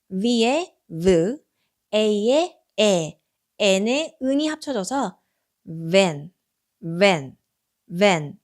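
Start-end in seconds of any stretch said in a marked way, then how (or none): 5.9-8.4 van said lower, repeated; model word. Shown as a demonstration. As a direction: repeat van low and clear. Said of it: "밴이라는 뜻의". (낮고 또렷한 van)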